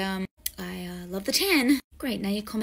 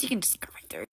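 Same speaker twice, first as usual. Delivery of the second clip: meek whisper; 5 dB quieter, faster than usual. Acted. Doorman mumbles.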